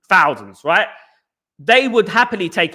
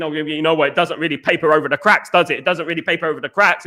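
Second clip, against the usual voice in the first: lower, dismissive mock of the pundits; mocking media; 3 semitones lower than usual. Imitating pundits who dismiss a Europa League win, sneering. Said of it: "they're gonna be saying".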